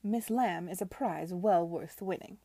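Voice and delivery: a lightly voiced imperious aunt, measured; Lady Denham lecturing Edward, haughty; stern aunt. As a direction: lay down the law to her nephew.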